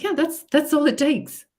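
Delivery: a bright, emphatic that's all it takes; emphatic agreement. Retold or imitated. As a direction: drive the point home. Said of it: "I'm like".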